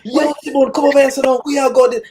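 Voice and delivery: high, casual Jamaican call; Jamaican greeting. Retold or imitated. Friends calling Simone over to sit. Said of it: "I'm used to everybody saying".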